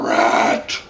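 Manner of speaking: breathy whispered Rat; fangirl whisper. Acted. Reviewer swooning over Rat, whispered. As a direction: whisper the name lovingly. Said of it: "That's kinda creepy".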